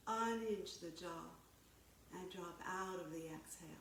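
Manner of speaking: calm, measured yoga-teacher delivery; guided yoga. Real, not acted. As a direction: guide them through breath and stretch, unhurried pauses between cues. Leads stretching exercises.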